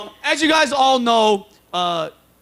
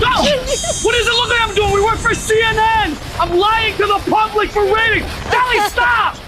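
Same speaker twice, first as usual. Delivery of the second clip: annoyed reporter; 10 semitones higher than usual. Acted. Reporter caught faking, snaps back.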